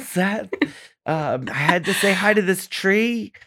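lightly voiced drunk party girl, slow and trailing; a hint of the tipsy girl you met at a party; Cecily Strong's drunk girl. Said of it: "Cecily Strong's character in Saturday Night Live".

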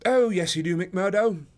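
loud, high, hearty greeting; genial cry. A narrator's reading. Holmes hailing an old sparring partner, genial cry. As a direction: call out genially, sure of a welcome. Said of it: "cried Sherlock Holmes genially".

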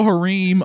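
huh-REEM for harem; odd stress on harem. Real, not acted. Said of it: "putting the emphasis on some weird syllables".

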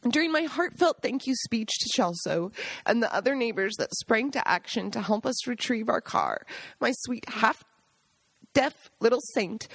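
crying through the words; real tears, voice wavering; tearful. Real, not acted. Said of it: "Now you see why I'm crying".

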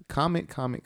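high, insistent repeated comment; eager plea. Real, not acted. Host urging listeners to comment, eager high repeated plea. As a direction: pitch it up and keep hammering comment.

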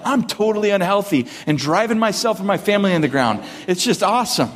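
cheerfully bragging about burnout; mock proud brag. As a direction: brag about ruin like it's great news. Mock bragging reply to greeting.

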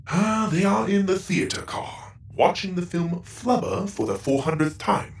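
a machine sighing at the rerun; robot, dry. Acted. Goro reports family location.

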